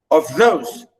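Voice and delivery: of those with light of, long falling THOSE; iambic stress. Shown as a demonstration. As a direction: lean on THOSE in of those. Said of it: "The next line".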